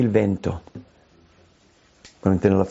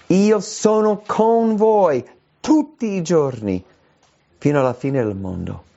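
Jesus' promise; 6 semitones higher than usual. Acted. Preacher voicing Jesus' promise.

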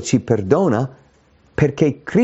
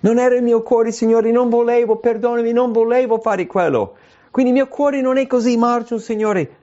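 higher, pleading voice of someone excusing themselves; whiny excuse; 10 semitones higher than usual. Acted. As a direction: play the sinner who wriggles out of blame. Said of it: "Vogliamo scusarci". (voce lamentosa di chi si giustifica)

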